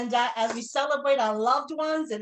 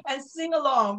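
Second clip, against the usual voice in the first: words pushed out through a laugh; laughing breathlessly. Real, not acted. Host laughing through breathlessness, laughing. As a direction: laugh it off while still panting.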